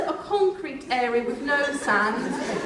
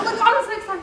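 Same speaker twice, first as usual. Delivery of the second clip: mock excitement; 9 semitones higher, 4 dB louder, much faster than usual. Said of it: "I was like".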